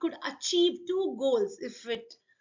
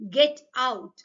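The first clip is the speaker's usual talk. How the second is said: fire shouting; 5 dB louder than usual. Acted. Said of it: "shouted back the fire".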